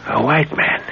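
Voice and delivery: sharp rising disbelief; he can hardly believe a white man is behind it; surprised echo. Acted. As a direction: jump on the words, taken aback. Startled echo of news.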